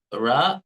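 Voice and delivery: heavy Telugu "ra" with a rising tune. Shown as a demonstration. Telugu teacher shows students a heavy "ra". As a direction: give "ra" a heavy Telugu ring. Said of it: "many variants of ra sound".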